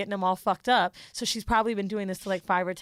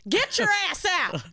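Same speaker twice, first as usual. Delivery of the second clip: mock yell; 10 semitones higher than usual. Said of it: "She's like".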